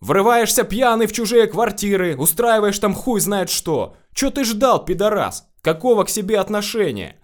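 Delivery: high, loud scolding tirade; angry yelling. A narrator's reading. Investigator chewing out Alexei behind the door, yelling. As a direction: yell accusingly, pitch way up. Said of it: "как дознаватель орёт на Алексея".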